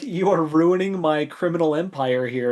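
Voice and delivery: lightly voiced exasperated crook boss; a touch of a fed-up villain griping; Thief Maker's complaint. Thief Maker complaining about Locke, mildly exasperated. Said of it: "dialogue that is used by the Thief Maker".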